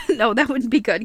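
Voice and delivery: high, giggly backtracking; laughing. Real, not acted. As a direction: laugh through the words while taking it back. Laughs at her own fantasy.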